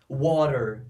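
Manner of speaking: water with a flapped t, like "wɔɾer"; American pronunciation. Shown as a demonstration. Teacher demonstrating American pronunciation to students. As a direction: say water with the t as a quick tap, American style. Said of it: "Pronúncia americana".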